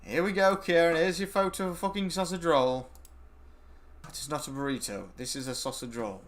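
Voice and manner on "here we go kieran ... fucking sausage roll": loud, high, held-up presentation; mock-triumphant announcement. Real, not acted. Streamer proving Kieran wrong with a photo, mock-triumphant. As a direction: present the evidence with exasperated fanfare. Triumphant proof in burrito argument.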